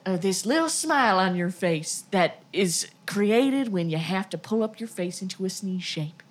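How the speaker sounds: put-on a light Georgia accent, sweet-talking; gentle Georgia accent. Friend teasing a sneezing friend, gentle Georgia accent. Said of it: "such a gentle Georgia accent that suddenly".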